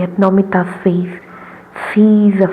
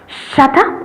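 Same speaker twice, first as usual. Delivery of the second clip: mock shout back; 6 semitones higher than usual. A narrator's reading. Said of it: "Ajit rolls out".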